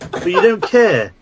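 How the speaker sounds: high-pitched wounded accusation; exasperated comic reproach; indignant rant. Acted. Mock-offended rant at email writer.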